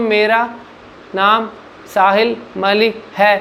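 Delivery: slow, halting, choppy speech with no flow. Teaching confident speaking, showing the wrong way: slow, without flow. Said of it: "speed तो slow हो गई लेकिन ये right manner नहीं है".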